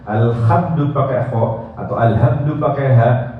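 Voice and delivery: alhamdu said with rough kho, then ha; kho versus ha. Shown as a demonstration. Teacher contrasting wrong kho and ha. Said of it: "itu artinya kematian".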